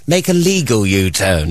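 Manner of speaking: sat nav voice. Retold or imitated. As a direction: imitate an automated navigation voice. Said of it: "The woman on my sat nav".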